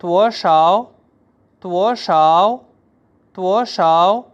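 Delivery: त्वो stressed, rising; teacher drilling; Chinese word drill. Shown as a demonstration. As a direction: lean on त्वो then rise. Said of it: "पहला लफ्ज़ है".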